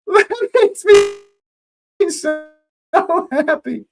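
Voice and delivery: high, slow words squeezed through laughter; laughing. Real, not acted. Streamer overjoyed the friend's player scored, laughing speech. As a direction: giggle the words out.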